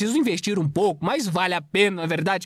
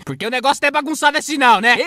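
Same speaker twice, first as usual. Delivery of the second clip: fast; 5 semitones higher, 6 dB louder, much faster than usual. Real, not acted. Fast joking aside.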